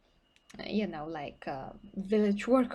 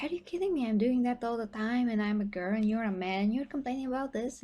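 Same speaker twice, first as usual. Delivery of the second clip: incredulous; 2 semitones higher, faster than usual. Retold or imitated. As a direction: scoff at a grown man's soreness. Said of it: "And I'm like".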